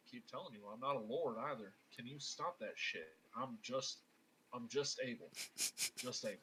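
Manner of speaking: understated, weary Southern voice; Southern accent. Acted. Abel refusing the title of lord, Southern accent. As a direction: deny it wearily with a Southern accent. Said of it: "I was doing the Southern accent".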